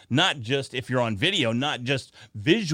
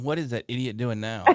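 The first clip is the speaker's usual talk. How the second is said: imitating wife; 2 semitones lower, 5 dB quieter than usual. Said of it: "my wife's in the next room going".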